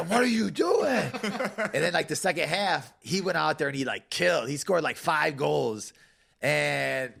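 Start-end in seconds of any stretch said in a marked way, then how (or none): 0.1-1.1 high, drawn-out imitation of a yell; mock yelling. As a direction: slowly mimic an angry teammate's yell. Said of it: "he literally yelling at me".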